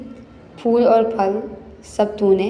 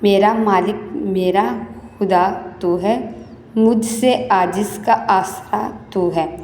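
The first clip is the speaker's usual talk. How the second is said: model poem recitation. Shown as a demonstration. Teacher showing pupils how to read verse with correct pronunciation, measured recitation. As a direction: recite line by line, pausing between phrases. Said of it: "آپ نے بھی اس کو اسی طرح سے پڑھنا ہے".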